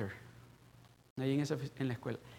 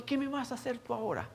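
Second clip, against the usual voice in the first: laughing taunt; 9 semitones higher than usual. Retold or imitated. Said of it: "Riéndome".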